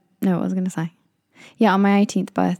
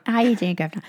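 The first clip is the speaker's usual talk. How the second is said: put-on amped-up British accent; 3 semitones higher, faster than usual. Friend greeting a New York bouncer, amped-up British accent. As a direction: play up the British accent for laughs. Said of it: "she amps up the British".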